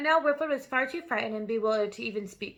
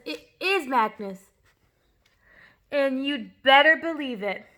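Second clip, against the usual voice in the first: slow ghostly voice; 5 dB louder, slower than usual. A narrator's reading. Ghostly message read out.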